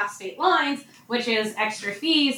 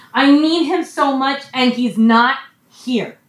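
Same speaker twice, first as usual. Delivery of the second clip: louder, anguished insistence, voiced for someone grieving; pleading grief; 6 dB louder than usual. Preacher voices grieving woman needing him, pleading grief. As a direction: press the need, acting out a mourner's distress. Voicing Mary's grief for Jesus.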